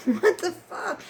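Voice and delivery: high, slow, stretched-out outburst; incredulous, pitched well up; exasperated disbelief. Real, not acted. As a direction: drag it out high in sheer disbelief. Disbelief at landlady's excuse.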